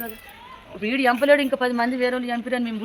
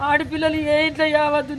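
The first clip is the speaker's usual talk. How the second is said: anguished outcry; 4 semitones higher than usual. Real, not acted. Grieving mother pleads to government.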